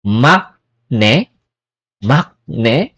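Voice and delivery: makne said slowly, syllable by syllable; makne, clear k then n; Korean pronunciation. Shown as a demonstration. Teacher modelling a Korean word. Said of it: "Another example".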